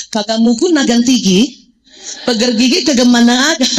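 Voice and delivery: playful secret-language syllables; teen slang gibberish. Shown as a demonstration. Mother mimicking her teen slang at a seminar, playful. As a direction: mimic the old teen code talk. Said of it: "Ngomongnya gini".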